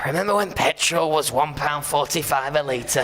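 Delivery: slow, lightly voiced old man; a hint of a wistful pensioner. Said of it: "sound older in our voices".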